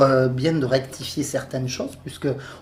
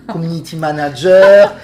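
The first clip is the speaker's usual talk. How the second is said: listing titles through real laughter; laughing; 8 dB louder than usual. Real, not acted. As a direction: laugh while reading out her job titles. Introducing guest's titles while laughing.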